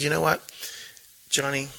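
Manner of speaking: put-on gently steer the kid, no yelling; calm, reassuring principal to a student; calm redirect. Shown as a demonstration. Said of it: "the tone creates the experience".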